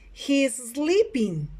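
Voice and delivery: slow teacher's model; model sentence for repeating. Shown as a demonstration. Teacher reads picture number six, slow model delivery. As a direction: say it slowly for learners to copy. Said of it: "Repeat after me".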